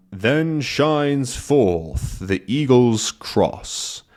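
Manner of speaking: slow, grand recitation; ceremonious riddle reading; solemn riddle. Acted. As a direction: intone it like an ancient clue. Requoting the riddle.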